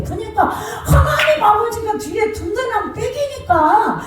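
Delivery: impassioned preaching. Acted. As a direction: lift it up like a preacher in full cry. Preaching at full force. (높고 느리게 노래하듯 외치는 설교)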